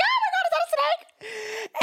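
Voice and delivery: high-pitched hammed-up fright; mock panicked squeal; scared Moses. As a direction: shriek it like a man who just saw a snake. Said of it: "Moses gets so scared".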